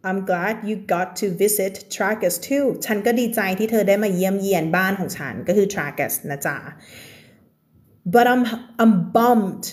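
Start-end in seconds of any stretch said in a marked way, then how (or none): 0.1-2.7 slow reading. Shown as a demonstration. 8.1-9.7 slow reading. Shown as a demonstration.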